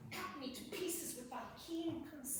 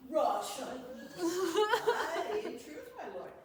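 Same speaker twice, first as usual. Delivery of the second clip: laughing; 5 semitones higher, 9 dB louder, slower than usual. Real, not acted. Laughing at Russians.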